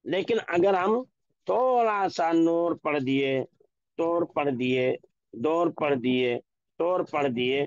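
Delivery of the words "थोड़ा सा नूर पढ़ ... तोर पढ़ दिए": नूर as nor, तोर, दौर with an o sound; wrong o reading. Shown as a demonstration. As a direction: demonstrate the mistaken o sound. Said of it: "मारूफ के बजाय क्या हो जाएंगे? मजहूल".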